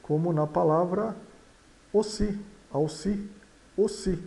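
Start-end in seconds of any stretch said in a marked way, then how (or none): 1.9-4.2 "aussi" starting with an O sound; closed O opening "aussi". Shown as a demonstration. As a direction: say "aussi" as oh-see. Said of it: "A U soa O".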